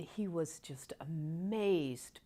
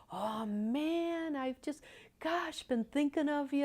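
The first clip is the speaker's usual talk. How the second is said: retold heartfelt greeting; 10 semitones higher than usual. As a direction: imitate a friend moved to see him. Retold friend moved at seeing him.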